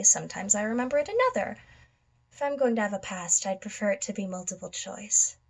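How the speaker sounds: lightly voiced musing villain, quick phrases between pauses; theatrical madman monologue. Madman musing on his uncertain past, theatrical offhand delivery. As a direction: drop from guessing into offhand musing. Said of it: "I will be performing One Bad Day from The Killing Joke".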